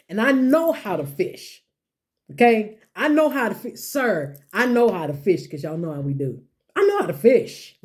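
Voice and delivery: hammed-up Peter, high and indignant; complaining Peter. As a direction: insist you know your trade. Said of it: "Peter says".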